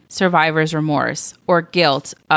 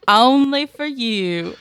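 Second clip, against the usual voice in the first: mock coy aside; 6 semitones higher, slower than usual. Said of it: "I was hiding how I really talk".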